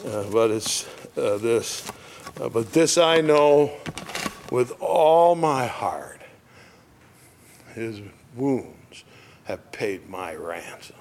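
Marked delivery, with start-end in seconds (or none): 2.5-11.0 reverent lyric recital. Acted. Preacher reciting the closing hymn line. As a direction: build then fall to a hush.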